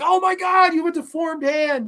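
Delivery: high-pitched, hammed-up horror; exaggerated high squeal of disbelief; mock shock. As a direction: gasp it out like an appalled onlooker. Mimics shocked diners seeing deformed hand.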